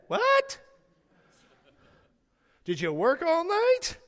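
loud, high-pitched disbelief; acted astonished husband, voice leaping up; incredulous. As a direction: shoot up high on a shocked question, then drag it out. Husband's shocked reply in acted exchange.

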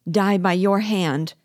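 loud, high, drawn-out cry of protest. A narrator's reading. Victim to the man with the dagger, crying out. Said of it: "cried the economist".

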